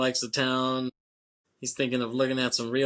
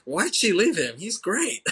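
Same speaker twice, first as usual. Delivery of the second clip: higher, louder put-on sneering guy; mock Buscemi; 8 semitones higher, 3 dB louder, slower than usual. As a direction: ham up a scornful tough guy. Voicing Buscemi mocking.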